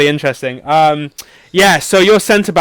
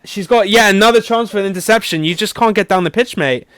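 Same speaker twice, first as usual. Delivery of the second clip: teasing commentary; 5 semitones higher than usual. Acted. Quiz host teasing a failed pass.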